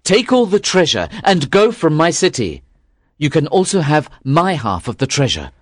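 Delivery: high, fearful emperor voice; desperate offer to be rid of him; trembling emperor. Acted. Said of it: "The emperor trembled and said".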